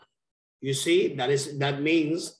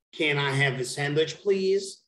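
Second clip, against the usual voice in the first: "Can I have a sandwich, please?" with "please" pitched up; model question intonation. Shown as a demonstration. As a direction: demonstrate the question, raising only "please". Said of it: "It's gonna be".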